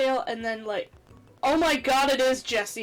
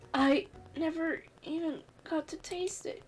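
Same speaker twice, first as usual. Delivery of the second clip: quiet; 6 dB quieter than usual. Acted. Fainting character's last words.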